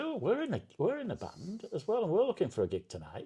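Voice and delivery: put-on Scouse accent. Retelling what a stranger in a band said to him, scouse accent. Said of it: "in a Scouse accent".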